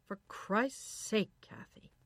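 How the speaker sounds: loud, drawn-out exasperated complaint; annoyed husband. A narrator's reading. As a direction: snap at her in irritation. Man snaps at piano-playing wife.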